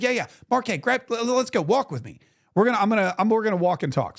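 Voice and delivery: a hint of a buzzing, hurried congressman; excited congressman. Congressman voiced in retold story.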